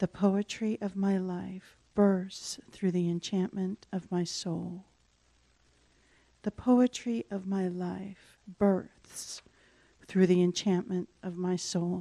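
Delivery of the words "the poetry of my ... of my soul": slightly softer, quieter, gentle voice. Leading the affirmation a second time, a little softer. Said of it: "Then we'll take it a little softer".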